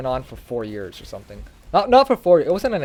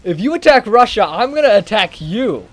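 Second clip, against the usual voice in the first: much higher, louder, laughing hammed-up protest; mock France; 8 semitones higher, 6 dB louder than usual. France warning Germany, high panicked mock voice. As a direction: squeal it like a panicky ally. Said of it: "France is like".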